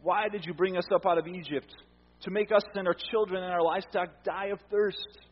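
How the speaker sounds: a hint of whiny accusation; mild mock grumbling; grumbling complaint. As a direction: lightly grumble it at Moses. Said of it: "They grumbled against Moses".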